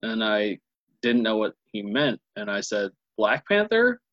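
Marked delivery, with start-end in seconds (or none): 3.2-4.0 high, rising question of disbelief; incredulous. Retold or imitated. Co-host retelling his reply to a friend's news, incredulous. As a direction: ask it incredulously, pitch shooting up. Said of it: "like, incredulously".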